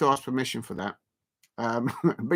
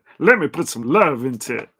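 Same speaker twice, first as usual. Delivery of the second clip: voice dropped a bit deeper and louder; 2 semitones lower, 5 dB louder than usual. Thanking everyone for seven likes: bit deeper voice. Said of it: "that was a bit deeper voice there".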